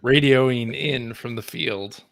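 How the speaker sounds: slow, booming radio announcer. Real, not acted. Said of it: "You sound like an old-timey radio announcer".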